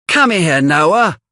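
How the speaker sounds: a hint of doting mistress calling Noah; Missus Sowerberry, fond. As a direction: call the favourite boy to you. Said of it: "she says".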